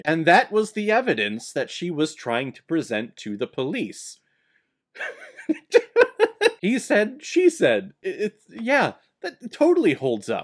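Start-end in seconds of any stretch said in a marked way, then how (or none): 5.0-6.5 high laugh. Real, not acted. Laughs at the absurd evidence.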